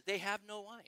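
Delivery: understated hint at normal pace; motherly hint. Acted. Preacher voicing Mary to her son, an understated motherly hint. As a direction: drop it lightly, like a mother hinting. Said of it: "as only a mother can, perhaps".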